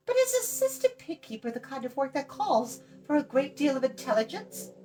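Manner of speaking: put-on high, bright girl's voice; chatty girl. Eilonwy talks down to Tarn, high and bright. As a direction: rattle on like a cheeky young girl.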